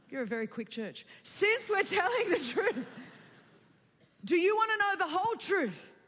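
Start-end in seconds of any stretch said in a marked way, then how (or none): 1.2-5.9 retold Greek mother. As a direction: lightly voice a mother's weighty question. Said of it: "she says to me in Greek".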